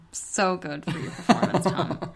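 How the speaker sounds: laughing teasing praise for Tom's performance. Real, not acted. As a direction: chuckle through the compliment. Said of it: "I thought you were saying "so good" for my performance".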